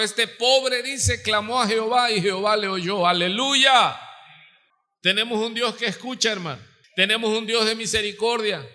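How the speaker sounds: high, forceful sermon delivery; impassioned preaching. Real, not acted. Preacher proclaiming a God who hears, impassioned and high.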